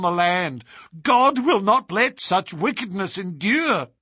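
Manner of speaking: building to a high outcry; wild anger. Acted. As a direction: rail against the marriage laws. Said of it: "her eyes blazing".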